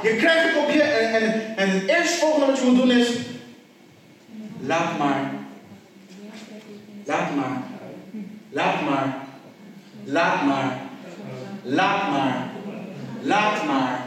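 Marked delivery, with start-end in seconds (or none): 4.6-14.0 low, measured repeated release; calm letting go. Acted. Preacher models the first response to hurt, calmly. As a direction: drop low and pause between each one.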